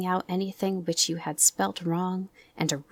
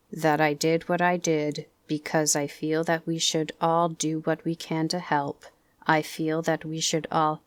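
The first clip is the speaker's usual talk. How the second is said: Eeyore's gloomy voice. Acted. Eeyore's speech.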